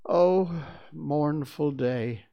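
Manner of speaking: slow, high, loud lament; theatrical cry of mourning; mournful lament. A narrator's reading. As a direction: draw out the woe in each word. Voices lamenting at the news.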